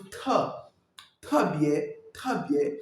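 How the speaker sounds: "Te" with a puff of air; explosive T. Shown as a demonstration. Coach demonstrating Chinese T, explosive "Te". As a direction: burst the T open in "Te" and "Très bien". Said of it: "Le T, c'est toujours explosif".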